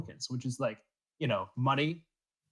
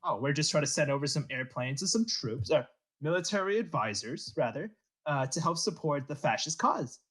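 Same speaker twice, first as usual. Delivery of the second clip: put-on Italian accent. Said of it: "such a strong Italian accent".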